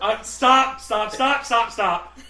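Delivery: loud, high, repeated pleading; mock panicked backtracking. Box guy realizing he went too far, mock panic. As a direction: frantically call it off, acted. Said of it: "I've gone way too far".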